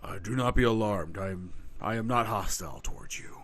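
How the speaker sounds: low, calm centaur voice; gentle reassuring stranger, low and steady. Acted. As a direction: keep it level and unthreatening. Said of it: "Your apron is abnormally calm".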